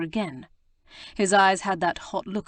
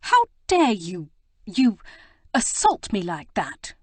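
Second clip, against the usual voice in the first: outraged; 2 semitones higher, 6 dB louder than usual. A narrator's reading. Prudence confronting her assailant, loud outraged demand. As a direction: hurl the accusation, indignant.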